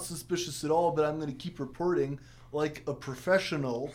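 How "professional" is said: laughing. Real, not acted. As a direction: giggle out the word. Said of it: "There it is again".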